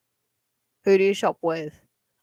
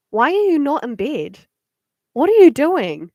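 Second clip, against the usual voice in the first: mock scolding; 6 semitones higher, 7 dB louder than usual. Teasing scolds a late viewer.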